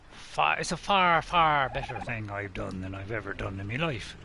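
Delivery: mock-grand line in a rough Irish accent; badly faked Irish accent, sliding down in pitch; supposed Irish accent. Streamer quoting grandly to himself in a bad Irish accent. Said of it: "supposedly Irish accent".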